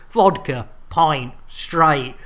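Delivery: slow, savoured mock Geordie line; lightly Geordie, drawn out. Shown as a demonstration. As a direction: roll it out slowly like a Geordie. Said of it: "said by a Geordie".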